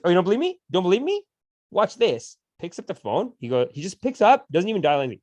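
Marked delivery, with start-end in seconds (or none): 0.0-2.4 put-on defiant kid. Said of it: "He goes".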